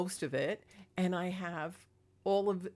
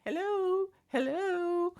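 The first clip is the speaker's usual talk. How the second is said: very high, louder mewing hello; cat saying hello; 11 semitones higher, 5 dB louder, slower than usual. Retold or imitated. Cat Magic waking her up, with a high squeaky hello. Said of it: "in the morning he's like".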